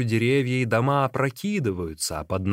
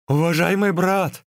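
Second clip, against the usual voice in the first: raised, pleading address; 5 semitones higher, 4 dB louder than usual. A narrator's reading. Hungry runner appeals to his companion, pleading. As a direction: appeal to him for help. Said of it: "взмолился Ликуй".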